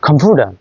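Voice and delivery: কম্পিউটার with the T tapped like D; flapped T. Shown as a demonstration. Teacher showing American flap in কম্পিউটার. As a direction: say কম্পিউটার as compuder. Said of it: "American অ্যাকসেন্টে".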